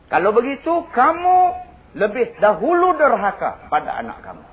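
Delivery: high, driving sermon storytelling; preaching storytelling. Acted. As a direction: tell the tale at full preaching force. Kisah Saidina Umar diceritakan. (berceramah dengan penuh semangat)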